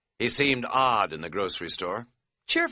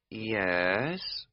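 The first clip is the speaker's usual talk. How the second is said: slow two syllables. Acted. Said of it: "She said it slowly, as two syllables".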